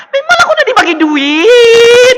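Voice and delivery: high, slow, loud taunting rebuke; scolding yell. Real, not acted. Vlogger berating Atan over asking for money, scolding yell.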